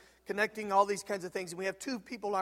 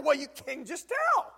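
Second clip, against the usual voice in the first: higher, slow, knowing drawl; knowing friend; 7 semitones higher, 5 dB louder, slower than usual. Retold or imitated. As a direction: savour the answer slowly. Andrew shrugs it off.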